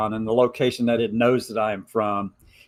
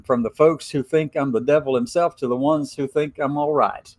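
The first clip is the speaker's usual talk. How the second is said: put-on hillbilly Appalachian accent. Reading Gemini's Appalachian letter aloud in a light Appalachian accent. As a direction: read it like a mountain gal with an Appalachian lilt. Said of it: "hard for me to talk like this".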